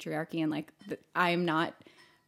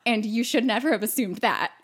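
mildly raised, emphatic retold scolding; self-righteous indignation; 3 semitones higher, 4 dB louder than usual. Scolding the guy who assumed, righteously indignant. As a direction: set him straight with righteous emphasis. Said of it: "so self-righteous and indignant".

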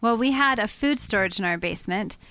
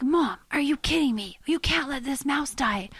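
mildly imitated teenage protest, pitched up; pleading son; 4 semitones higher than usual. Son pleading with mom for the mouse, mock upset. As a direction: lightly voice an upset son's plea. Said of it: "And they're crying. Even my eighteen-year-old son".

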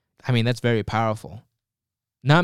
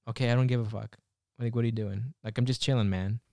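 sarcastic nonchalance; 6 dB quieter than usual. Retold or imitated. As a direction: shrug it off quietly, chilled out. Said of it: "he's being sarcastic".

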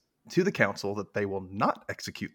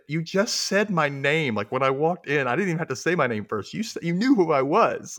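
frustrated protest; 5 semitones higher, 3 dB louder than usual. Retold or imitated. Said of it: "And Julia's like".

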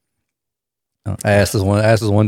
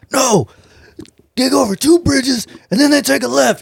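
rough guy voice; 12 semitones higher than usual. Retold or imitated. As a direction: play the confused husband, pitched up. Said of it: "He's like".

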